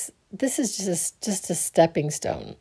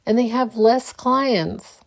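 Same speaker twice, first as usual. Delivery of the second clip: amazed; 4 semitones higher than usual. Retold or imitated. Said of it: "I'm like".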